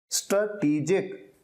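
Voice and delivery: स्ट्रेटेजिक said as "struh-TEE-jik"; correct pronunciation. Shown as a demonstration. Teacher showing learners the pronunciation, स्ट्रेटेजिक as "struh-TEE-jik". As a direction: say स्ट्रेटेजिक with a long "tee" in the middle. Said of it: "इसकी pronunciation होती है".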